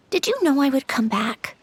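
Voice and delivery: hushed private question to an absent friend; whisper. Real, not acted. Alone with the memories, whispering a question to Alen. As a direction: breathe the words almost to yourself.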